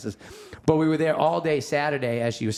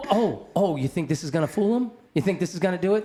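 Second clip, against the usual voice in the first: higher, mock-incredulous challenge; incredulous retort; 4 semitones higher than usual. Brother challenging sisters over the crucifix, incredulous. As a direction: challenge them with raised, disbelieving questions.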